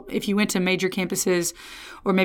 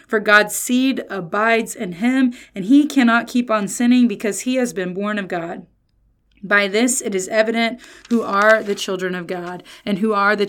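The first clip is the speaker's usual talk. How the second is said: scripture reading. Acted. Preacher reading scripture to the congregation, measured and solemn. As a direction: read the passage out deliberately.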